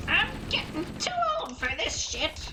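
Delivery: tired old cop, high and put-on; weary cop voice. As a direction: grumble like a worn-out movie cop. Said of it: "Hey, that was pretty good".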